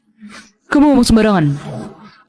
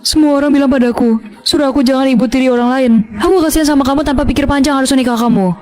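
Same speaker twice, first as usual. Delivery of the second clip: whining stepmother; 2 semitones higher than usual. Acted. Stepmother complaining to husband about stepdaughter, whining. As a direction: whine to your husband for sympathy.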